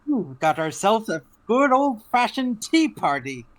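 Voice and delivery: lightly voiced eccentric hatter; a hint of the Mad Hatter. In-character Mad Hatter greeting.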